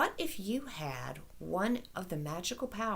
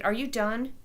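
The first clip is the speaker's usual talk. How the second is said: demanding. Acted. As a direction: push her to finish. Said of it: "Kira demanded".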